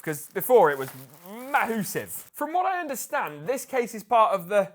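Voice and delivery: panting after lifting the box; out of breath. Real, not acted. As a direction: talk while catching your breath. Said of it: "I'm out of breath".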